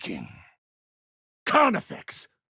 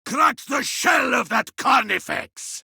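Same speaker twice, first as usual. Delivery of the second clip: shouted victory cry; 3 semitones higher than usual. Acted. Exulting over the kill.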